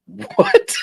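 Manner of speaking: very high squeal of shock; shrieked disbelief. Real, not acted. Reacting to the deer pee comparison with a very high shocked squeal. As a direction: squeal it out, totally scandalized.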